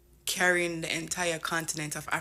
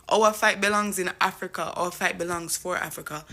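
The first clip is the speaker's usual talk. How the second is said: rousing louder call to the cause; louder declaration; 6 dB louder than usual. Real, not acted. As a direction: stress on "Our", belting it out. Passionate declaration to viewers.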